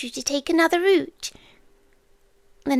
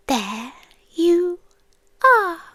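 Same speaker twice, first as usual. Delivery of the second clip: rising emotional recognition; 3 semitones higher, slower than usual. Retold or imitated. Creature greeting the human tonight, rising moved voice. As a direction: let it swell up on are. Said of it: "The same thing I said when I saw you tonight".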